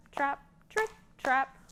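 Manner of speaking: high rhythmic trip trap; playful hoof-step chant; hoof sounds chant. Shown as a demonstration. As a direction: chant the hooves for the kids. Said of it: "you can do trip".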